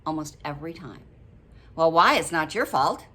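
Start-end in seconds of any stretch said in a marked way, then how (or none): 1.7-3.1 blunt reply. Retold or imitated. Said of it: "what they'll say back to you".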